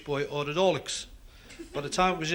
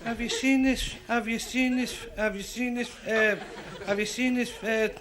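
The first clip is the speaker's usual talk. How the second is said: stutter; 4 semitones higher than usual. Acted. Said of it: "who stuttered just as bad".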